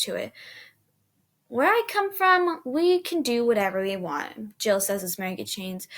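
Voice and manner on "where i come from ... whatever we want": high, slow and eager; excited boasting. Acted. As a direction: brag it with wide eyes.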